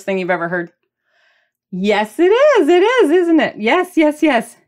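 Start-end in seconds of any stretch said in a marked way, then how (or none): 1.7-4.6 higher, louder pushy agreement; emphatic insistence. Real, not acted. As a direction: demand they agree with you. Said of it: "You should be agreeing with me".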